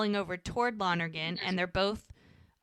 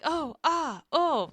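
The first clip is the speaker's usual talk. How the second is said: acted oohing and ahing; 8 semitones higher, 3 dB louder, slower than usual. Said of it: "everyone is like".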